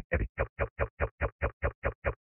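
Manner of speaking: fading to a whisper; robot powering down, pleading softly; dying robot. Acted. Robot fading out, calling help.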